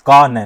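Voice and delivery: "कान" said as का-नै, two syllables; wrongly split word. Shown as a demonstration. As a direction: add a vowel after the न of "कान". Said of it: "कान की ध्वनि नहीं आ रही". ("कान" को का-नै बोलें)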